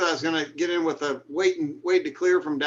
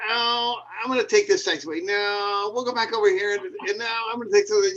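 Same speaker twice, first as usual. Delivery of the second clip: lightly voiced dithering driver, pitched higher; mock the guy who can't pick a taxiway, slightly higher; 4 semitones higher than usual. Pilot mimicking a dithering runway vehicle driver, a light higher mock voice. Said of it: "He goes".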